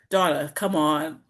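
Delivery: low, slow, firm nudge; low coaxing self-talk. Retold or imitated. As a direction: coax yourself, low and slow. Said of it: "if I do third person".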